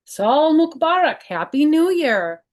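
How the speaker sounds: joyful New Year greeting to grandparents; cheerful greeting. Acted. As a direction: call out the wishes with joy.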